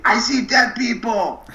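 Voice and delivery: high, slow hushed ghost-movie voice; mock spooky kid. Quoting the ghost movie to the listener, high slow spooky. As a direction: play the eerie child seeing ghosts.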